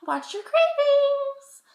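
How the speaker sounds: very high, loud, drawn-out squeal; mock-cautionary, piercingly high and slow; playful sing-song warning. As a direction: stretch it out in a silly high voice. Playful warning about eating habits.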